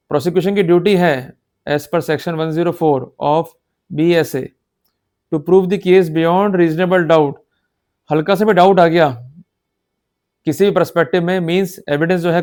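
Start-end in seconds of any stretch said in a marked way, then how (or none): 1.7-7.3 each word laid out slowly; slow dictation. Shown as a demonstration. Lecturer reading a legal section for notes, very slow. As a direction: read the law out slowly for notes.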